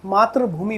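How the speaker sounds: मातृभूमि with a "tra" in the middle; the common slip "maatra-bhoomi" for मातृभूमि; wrong pronunciation. Shown as a demonstration. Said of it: "जबकि मातृभूमि नहीं है".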